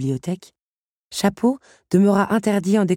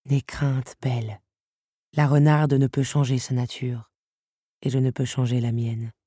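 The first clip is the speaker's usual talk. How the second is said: calm her fears, pitched down; reassuring father; 4 semitones lower than usual. A narrator's reading. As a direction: lower voice of a father soothing his child. Father reassures his frightened daughter. (père rassurant)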